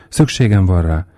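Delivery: ordinary delivery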